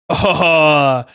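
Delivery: put-on loud, slow, drawn-out African American accent. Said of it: "that was my black voice".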